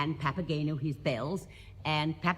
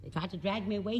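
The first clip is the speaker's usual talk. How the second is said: Papageno complaining; 4 semitones higher, 5 dB quieter than usual. Retold or imitated. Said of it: "says Papageno".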